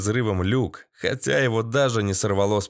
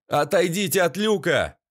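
raised warning cry; urgent shout; 6 semitones higher than usual. A narrator's reading. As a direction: warn them off fast. Warning friends off hatch.

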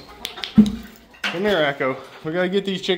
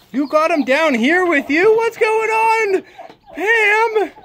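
surprised; 13 semitones higher, slower than usual. Real, not acted. Finds hen and ducklings on floor.

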